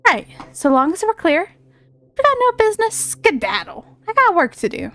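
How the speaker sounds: lightly put-on cocky fairy; a hint of a brash fairy calling out; Tooth Fairy voice. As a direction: play a pushy little fairy. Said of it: "I'm giving him that kind of voice".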